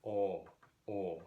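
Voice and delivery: "o" as an open, rounded ah; long open "o", like aw. Shown as a demonstration. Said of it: "that is just a rounded ah".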